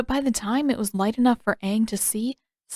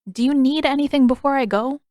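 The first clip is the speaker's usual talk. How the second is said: put-on young boy voice; 5 semitones higher, 5 dB louder than usual. A narrator's reading. Aang asks sick friend.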